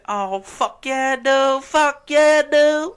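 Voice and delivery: high, drawn-out imitation of an ecstatic guy; hammed-up overjoyed caricature; retold thrilled customer. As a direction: crow it slowly, building to a high yell. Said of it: "He's like".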